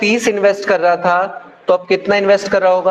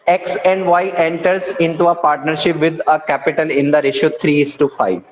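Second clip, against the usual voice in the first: slow, careful reading of the problem aloud; slow question reading; 3 semitones lower, much slower than usual. Shown as a demonstration. Teacher to students, reading the question slowly. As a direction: read each word slowly for the class.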